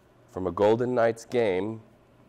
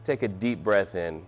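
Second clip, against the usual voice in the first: evenly paced breathing guidance; guided meditation. Acted. Teacher guiding a class to open palms and breathe, guided meditation. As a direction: invite them to settle and breathe.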